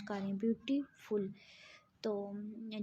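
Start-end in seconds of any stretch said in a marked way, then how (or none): 0.4-1.3 "ब्यूटीफुल" in two pieces, ब्यूटी, pause, फुल; syllable split. Shown as a demonstration. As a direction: pronounce "ब्यूटीफुल" with a break before फुल. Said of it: "इसमें दो sounds produce हो रही हैं".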